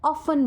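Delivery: ऑफन with a silent t; British often. Shown as a demonstration. Teacher gives the British ऑफन, t silent. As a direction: say ऑफन, no t at all. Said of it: "वो टी को silent consider करते हैं".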